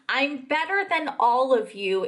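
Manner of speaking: slowly quoted boast; deliberate quote. Retold or imitated. Quotes the line back deliberately.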